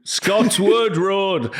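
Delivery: slow Geordie, Scotwood Road; Geordie correction. Shown as a demonstration. Correcting the host again, slow Geordie accent. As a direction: spell it out slowly in Geordie. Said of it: "then we'll repeat".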